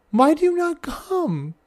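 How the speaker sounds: hammed-up lament to the still child; mock sad plea. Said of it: "I sadly sigh".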